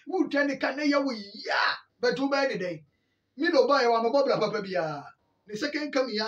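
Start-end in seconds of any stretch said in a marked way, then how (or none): 0.1-2.8 higher, strained cry of pain; anguished shout. Real, not acted. Lamenting to listeners that sacking a bad coach hurts, strained cry. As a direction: cry out how much it hurts.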